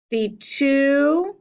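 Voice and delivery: "The two" with TWO held long; second syllable stressed. Shown as a demonstration. Teacher marking stresses, drawn-out "two". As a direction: lean on "two" in "The two". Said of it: "highlight the one we're going to stress".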